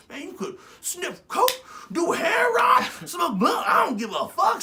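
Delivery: very high, loud mock driver voice; imitating the cab driver, high and shouting; carefree cab driver. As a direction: play the driver who doesn't care at all.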